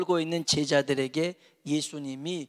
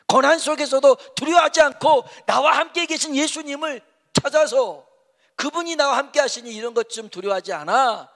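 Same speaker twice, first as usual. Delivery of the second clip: loud, high, impassioned preaching; forceful, ringing sermon delivery; full-force preaching; 8 semitones higher, 8 dB louder than usual. Real, not acted. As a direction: proclaim it to the congregation at full voice.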